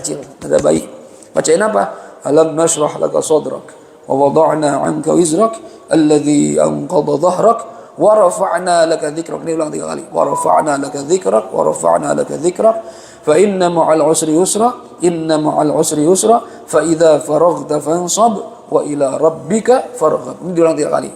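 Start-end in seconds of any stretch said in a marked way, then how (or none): 2.3-9.4 slow, measured Arabic recitation; slow reciting of scripture; Quran recitation. Shown as a demonstration. Recites the Quran surah for listeners. 10.1-20.4 slow, measured Arabic recitation; slow reciting of scripture; Quran recitation. Shown as a demonstration. Recites the Quran surah for listeners.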